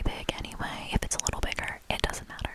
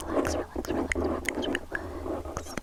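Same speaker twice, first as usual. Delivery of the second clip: tingly asmr mouth sounds. Acted. ASMR trigger word repeated.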